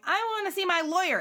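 high-pitched mock demand; lightly acted indignant protest; protesting prisoner. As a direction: imitate a captive insisting on their rights. Voices dragged prisoner's protest.

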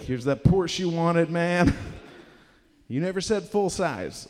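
high, teasing gift reveal; mock presenting. Kids handing dad a toy Porsche, playfully excited.

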